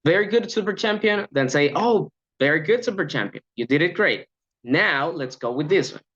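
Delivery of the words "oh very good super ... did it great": lively, warm cheering with an "Oh"; enthusiastic praise. Shown as a demonstration. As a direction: cheer the trainee on with energy. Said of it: "It's different to say".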